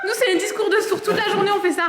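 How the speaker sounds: amused, high-pitched giggling talk; laughing. Real, not acted. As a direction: laugh through the words. Laughing about not hearing each other.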